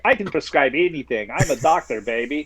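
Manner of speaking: a hint of a cheesy cartoon doctor; lightly voiced smooth-talking quack; Doctor Nick. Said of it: "It's just Doctor Nick from The Simpsons".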